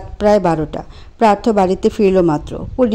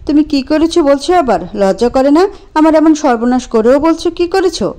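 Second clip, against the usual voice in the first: raised, indignant voice; angry accusation; 5 semitones higher than usual. Acted. Priya accusing Anto on the phone, indignant. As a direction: shame him for it.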